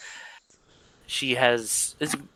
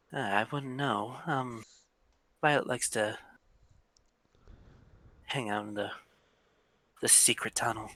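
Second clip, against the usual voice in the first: put-on young woman voice; 9 dB quieter than usual. GM voices woman NPC quietly.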